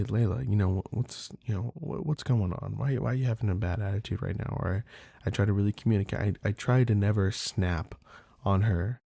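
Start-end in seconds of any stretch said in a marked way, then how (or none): 0.0-4.6 gentle questioning. Retold or imitated. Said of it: "and say".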